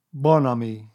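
lightly voiced mopey donkey; gloomy Eeyore. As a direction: say it as if even French can't help. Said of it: "went on Eeyore gloomily".

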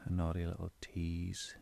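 deliberate stress on "naughty" and "tease"; emphasized words. Shown as a demonstration. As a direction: lean on "naughty", then draw attention to "tease". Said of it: "make sure to emphasize words".

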